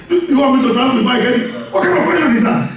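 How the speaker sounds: quick, rising mock indignation; incredulous retort. Retold retort to immigration officer.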